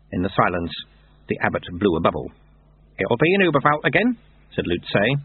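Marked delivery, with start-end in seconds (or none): 3.0-4.2 higher voice, faintly pleading; hint of pleading. A narrator's reading. Lutze angling for the mission, faintly pleading. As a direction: let a little pleading creep in. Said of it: "A hint of pleading in his voice".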